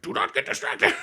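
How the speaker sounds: loud, laughing Yoda warning. Retold or imitated. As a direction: giggle through Yoda's warning. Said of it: "Yoda's like".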